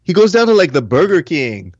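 high-pitched, incredulous-sounding character voice; Octavio. Acted. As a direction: pitch it way up, mimicking a friend's retort. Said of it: "I'll say it in Octavio voice".

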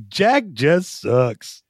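very slow, drawn-out quoted verdict; sound bite voice. Retold or imitated. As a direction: drag each word like a clip. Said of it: "it's just gonna be".

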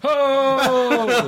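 high, drawn-out "oh"; hammed-up whoop of excitement; big excited reaction. Co-host imitating the host's reaction, hammed-up excited cry. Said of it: "What was my reaction then?".

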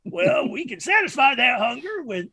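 megaphone announcement. Acted. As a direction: hawk chicken through the megaphone. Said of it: "megaphone thing on the thing".

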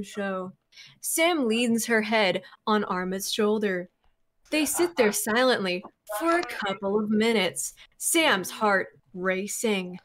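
measured story narration; reading voice. Acted. Reading fan fiction aloud to friends, narration voice. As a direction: read it out like an audiobook. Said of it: "you have a great, um, uh, reading voice".

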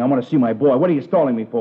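father shouting at the police. Acted. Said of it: "Would you keep your voice down".

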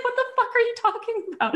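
the husband's laughing what-the-hell; husband's baffled retort, laughing. Retold or imitated. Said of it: "He's like".

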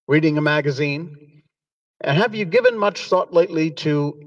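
chipper sponsor read, voiced as the pet dog; chipper 1950s ad. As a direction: sell it like an old-time radio spot. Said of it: "And our very next sponsor, yes, that's them".

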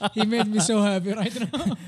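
laughing while talking. Real, not acted. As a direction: laugh through the words. Laughing at the joke.

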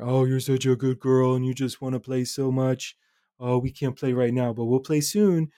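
put-on lightly sing-songy baby talk to a dog; sing-songy child talk. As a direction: coo it playfully like praising a puppy. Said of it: "my voice changed to kind of the more sing-songy, playful child talk".

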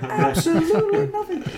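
high, hammy announcer; game show host voice. Pretend. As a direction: hype up the prize box like a host. Game show prize joke.

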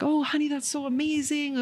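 high, sweetly delighted mom; high-pitched, encouraging mom voice; bubbly mom. Retold or imitated. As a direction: imitate Mom gushing over good news. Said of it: "just her bubbly, beautiful spirit".

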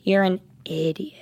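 hushed, breathy aside; whispered insult. Real, not acted. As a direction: whisper it as a jab.

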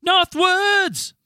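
high, loud cheerful announcement; friendly announcement. Acted. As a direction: announce it like a game show host. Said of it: "You say it so friendly".

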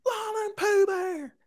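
high, drawn-out far-off holler; mock family calling. Calling Lana's sister and family, high pretend holler. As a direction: call the names high and stretched.

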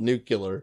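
"nuclear" said NOO-kyuh-ler; George W. Retold or imitated. Citing a president's way with "nuclear", NOO-kyuh-ler. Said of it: "George W. used to call it".

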